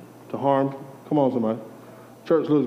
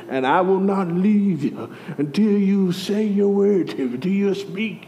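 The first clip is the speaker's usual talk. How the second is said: put-on Game of Thrones New Zealand accent; 6 semitones higher than usual. Jacob wrestling God for his word, mock New Zealand accent. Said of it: "mixture of, uh, of, uh, like, Game of Thrones and somebody from New Zealand".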